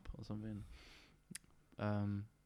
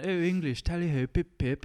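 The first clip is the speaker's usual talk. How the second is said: higher, louder mock posh Englishman; 7 semitones higher, 8 dB louder than usual. Imitating an American woman faking posh English, mock tally ho. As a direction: ham up a posh English cliché. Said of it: "she was going".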